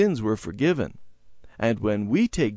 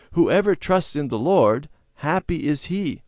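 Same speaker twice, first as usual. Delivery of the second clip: higher, louder sing-song recitation; children reciting; 6 semitones higher, 3 dB louder than usual. A narrator's reading. Children repeating the Bible verse together, chanting. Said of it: "the children repeated the words together".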